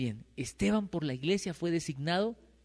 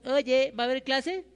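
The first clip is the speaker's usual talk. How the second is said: alumno desganado; 9 semitones higher than usual. Retold or imitated. Alumnos indiferentes cuando entra el profe.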